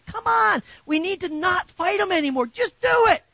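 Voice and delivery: high, loud preacher's cry; rally the church at full voice; preaching shout. Real, not acted. Preacher urging congregation to obey.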